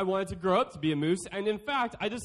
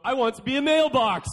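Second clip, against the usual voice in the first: put-on kid voice; 6 semitones higher, 8 dB louder than usual. Reading a kid's note aloud.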